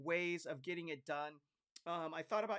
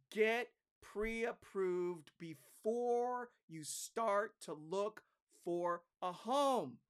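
slow realtor advice; 3 dB louder, much slower than usual. Retold or imitated.

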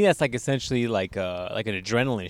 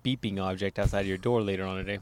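low menacing voice; 7 semitones lower, 10 dB quieter than usual. Retold or imitated. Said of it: "He's like".

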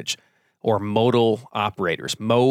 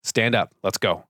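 firm parent. Retold or imitated. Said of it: "'cause I go".

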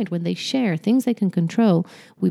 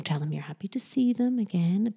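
ordinary delivery

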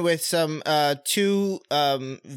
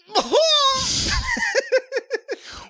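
big fake laugh. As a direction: overdo the laugh on purpose. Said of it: "let me try again".

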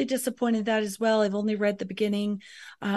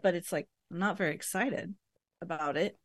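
talking while crunching ice; words round a mouthful of ice; 3 semitones lower, 6 dB quieter than usual. Real, not acted. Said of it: "I'm crunching my ice".

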